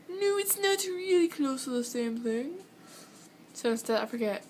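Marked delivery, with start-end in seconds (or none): 0.1-2.6 higher, insistent retort; high protesting voice. Retold or imitated. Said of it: "And I'm like".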